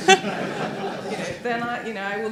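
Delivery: laughing through the words. Real, not acted. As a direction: let a real laugh break into the words. Laughs at her own point.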